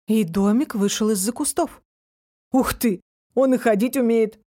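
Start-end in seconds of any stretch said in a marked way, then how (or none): 2.5-4.4 a touch of surprise; lightly voiced wonder; mildly surprised. A narrator's reading. Фантик marvels that the house can walk, mildly surprised. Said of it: "удивился Фантик".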